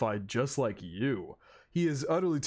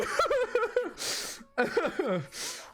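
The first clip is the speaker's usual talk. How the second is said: a crying laugh breaking high; teary high laugh. Real, not acted. Fan overcome by the speech, teary laugh. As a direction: laugh that tips into a sob. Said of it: "I'm gonna cry again".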